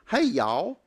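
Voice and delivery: quick mock Southern greeting; Southern accent. Shown as a demonstration. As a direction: toss in a Southern drawl sample. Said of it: "people don't always talk the same".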